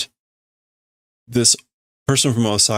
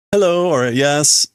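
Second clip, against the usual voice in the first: chirpy greeting; 5 semitones higher, 4 dB louder, slower than usual. Acted. Translating the student's greeting.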